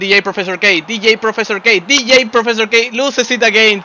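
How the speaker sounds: excited call. Real, not acted. Commentator calls a player's play.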